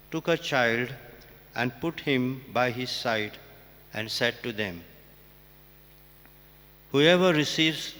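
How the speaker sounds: measured, proclaiming church reading voice; formal Gospel reading. Acted. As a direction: read it out solemnly to the congregation.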